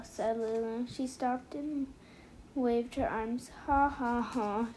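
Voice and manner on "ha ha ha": spoken ha-ha-ha, lightly acted; mild pretend laugh in separate syllables; storybook laugh, read as words. A narrator's reading. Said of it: "laughed Tuna".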